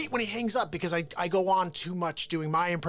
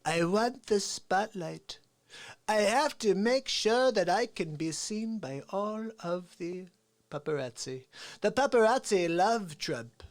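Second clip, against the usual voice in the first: Donald Trump. Acted. Comic as Trump bragging about the spotlight, boastful impression. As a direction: stretch the key words, relishing the attention. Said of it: "I like to do a Trump impression".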